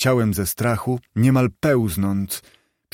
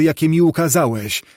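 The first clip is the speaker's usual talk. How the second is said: begging; 5 semitones higher than usual. Acted. Scrooge on his knees begs, "jakie mi ukazałeś" pleading. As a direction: beg "jakie mi ukazałeś" with rising desperation. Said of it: "błagał Scrooge".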